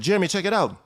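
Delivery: high, eager news to a friend; teen telling his friend he got into college, excited. Retold or imitated. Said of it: "I said".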